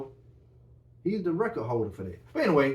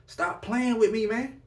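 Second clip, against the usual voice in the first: higher, louder hyped-up exclaim; high excited outburst; 10 semitones higher, 4 dB louder than usual. Real, not acted. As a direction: burst out with excitement. Hyped about the jersey.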